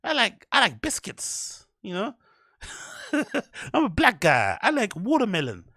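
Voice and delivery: high, drawn-out mock Black American accent; hacky stereotyped inflection. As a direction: send up a hacky comic's accent, stretching the words. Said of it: "You don't need to have, like".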